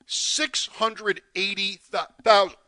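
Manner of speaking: choking up on the number; choked up. Real, not acted. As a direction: voice catching with emotion. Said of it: "I'm choking up".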